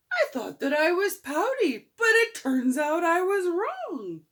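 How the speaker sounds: overcome, almost crying happy tears; touched sob-tinged admission; tearful joy. Acted. Fish's happy realization.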